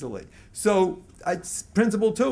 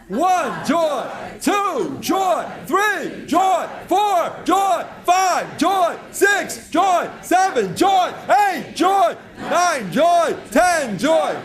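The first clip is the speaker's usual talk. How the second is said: shouted high count, each joy louder; chanting numbers and joy, much higher and louder; joyful shouted count; 9 semitones higher, 6 dB louder, much slower than usual. Shown as a demonstration. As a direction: lead the crowd in a rousing chant. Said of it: "Everybody together".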